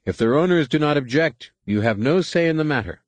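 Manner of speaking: lightly voiced alien tug worker; defiant Aqualish. A narrator's reading. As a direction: keep the Aqualish pushing back.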